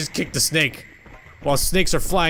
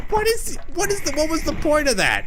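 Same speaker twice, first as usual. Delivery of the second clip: laughing; 13 semitones higher than usual. Real, not acted. Baffled by the odd unit.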